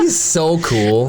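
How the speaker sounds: inspector voice. Acted. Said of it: "do a good inspector".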